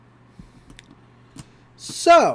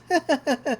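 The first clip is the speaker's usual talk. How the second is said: imitated staccato giggle, higher-pitched; Giffany's laugh; 6 semitones higher than usual. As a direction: put on a little game-girl giggle. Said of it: "you have such a nice laugh".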